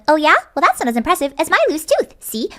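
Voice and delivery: high, squeaky cartoon voice; Chaka. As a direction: boast in a squeaky little cartoon character's voice. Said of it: "similar to my Chaka voice".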